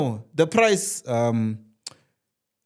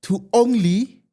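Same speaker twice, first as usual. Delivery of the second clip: salesman pitch; 5 semitones higher, slower than usual. Retold or imitated. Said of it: "They're like".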